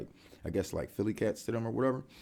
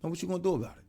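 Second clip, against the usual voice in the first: calm demo. Shown as a demonstration. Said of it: "Let me help you say it".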